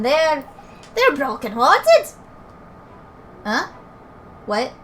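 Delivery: put-on Scottish-accented fairy banter; lively fairy characters. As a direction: play cheeky, chatty fairies in dialect. Reads fairy dialogue in put-on accent.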